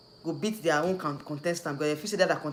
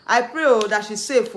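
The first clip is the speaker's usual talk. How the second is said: earnest plea; 4 semitones higher, 7 dB louder than usual. Real, not acted.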